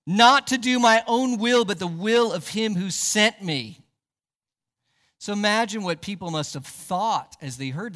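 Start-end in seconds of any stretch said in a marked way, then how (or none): 0.1-3.8 raised, emphatic scripture quotation; quoting Jesus. Retold or imitated. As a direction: proclaim it loudly, easing off at the end. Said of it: "Jesus said".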